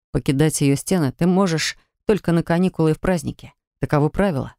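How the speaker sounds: a hint of a steady young man; lightly voiced young healer. Healer recites rules. (слегка заниженный голос парня-целителя)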